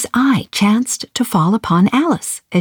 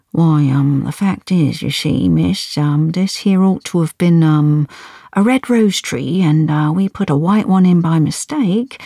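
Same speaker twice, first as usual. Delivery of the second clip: low hesitant voice. Acted. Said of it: "Two began in a low voice".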